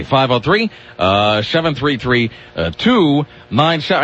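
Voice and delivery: each digit spelled out slowly; slow the number down for the callers; a clear slow number read; slow, careful repeat. Shown as a demonstration. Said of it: "It's five, it's five oh three".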